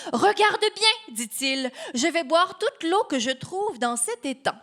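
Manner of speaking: lightly voiced boasting little guy; Mickey challenging the giant, cheeky; Mickey showing off.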